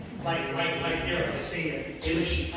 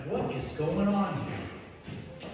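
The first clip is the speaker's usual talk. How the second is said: slow, soft puzzled murmur; softly stunned; bewildered; 6 dB quieter, much slower than usual. Retold or imitated. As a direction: ask it in quiet shock.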